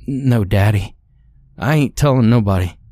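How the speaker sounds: a hint of pleading child; submissive child. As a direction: answer quickly like a scared kid. Beaten child submits to father.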